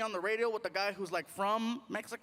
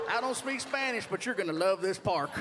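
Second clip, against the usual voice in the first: phone menu voice; 3 semitones lower than usual. Retold or imitated. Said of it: "Then he says this".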